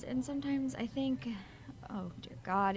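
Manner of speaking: breathless whispered worry, dropping to a hush; hushed and frightened; fearful whisper. Acted. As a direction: whisper the fear you dare not say aloud. Worried mother fears for Tim.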